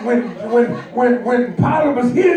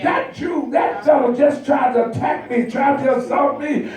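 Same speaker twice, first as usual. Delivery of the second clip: false accusation cry; 3 semitones higher than usual. Acted. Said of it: "she starts screaming".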